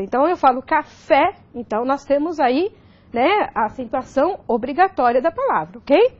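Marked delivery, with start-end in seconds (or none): 0.6-1.3 "café" with an open final é; open vowel. Shown as a demonstration. Teacher showing the class an open pronunciation, "café" with open é. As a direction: say "café", opening the last vowel wide. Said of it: "nós temos a pronúncia aberta".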